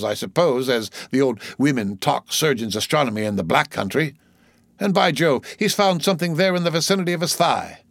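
animated sailor's running commentary, theatrical; wry onlooking sailor. Acted. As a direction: comment aside on each newcomer, pitch often lifting. Voices Stubb watching the others.

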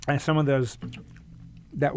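talking around a bite of cookie; mouth full. Real, not acted. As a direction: chew and talk at once. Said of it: "I'm going to talk and with food in my mouth".

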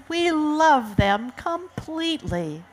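acted parental plea; protesting parents. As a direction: insist on it, voice lifted. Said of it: "cried their parents".

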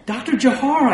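doctor answering, incredulous and loud. A narrator's reading. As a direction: say your own name in disbelief. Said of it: "I said, incredulous".

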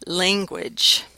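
"language" with the vowel of "lane"; long-a pronunciation. Shown as a demonstration. Lecturer showing students the third option, "language" with the lane vowel. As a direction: say "language" as if it began "laing". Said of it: "a, language".

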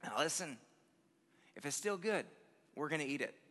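a hint of a raspy, dead-serious New York grandma; New York Grandma accent. Grandma to her grandkids by the hose, solemn raspy New York accent. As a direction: deliver it gravely, with pauses, in a New York accent. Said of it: "with all the seriousness in the world, in her thick".

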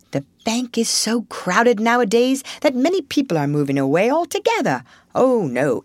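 lightly voiced Rat, mildly put out; grumbling Rat. Rat complains to Mole about crowded bank, mild grumble.

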